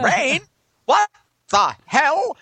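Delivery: high, loud panicked "what the hell"; mock panic. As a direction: play the shocked Angeleno. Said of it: "Everyone was like".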